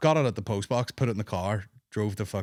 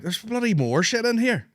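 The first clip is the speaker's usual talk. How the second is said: high-pitched retold astonishment; astonished; 12 semitones higher, 4 dB louder than usual. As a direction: act out amazed disbelief, pitch jumping up. Retelling surprise at finding more gifts.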